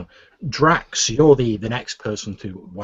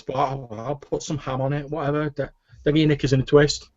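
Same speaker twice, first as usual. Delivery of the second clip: higher-pitched grumbling cook; grudging back-room cook; 5 semitones higher than usual. Acted. Half-elf cook giving in to the barkeep, grudging. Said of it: "you hear this voice go".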